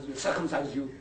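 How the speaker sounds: chuckling through the wrong word; mock threat said through a laugh; laughing misquote. Shown as a demonstration. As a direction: laugh as you say circumcise. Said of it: "they don't say circumcise".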